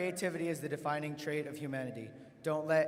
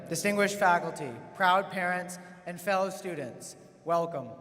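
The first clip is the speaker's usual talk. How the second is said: podium speech; 3 dB louder than usual. Real, not acted. Opens a graduation address.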